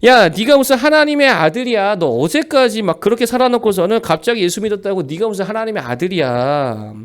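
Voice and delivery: mocking friends. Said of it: "얘네가 뭐 하는 말이 뭐냐?".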